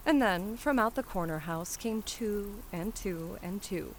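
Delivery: plain reading voice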